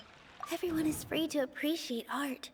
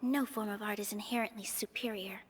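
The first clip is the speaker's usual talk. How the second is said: whispered, as if thinking to herself; inner thought whisper. Acted. Nilou thinking through her answer, in a whisper. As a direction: murmur it under your breath like a private thought.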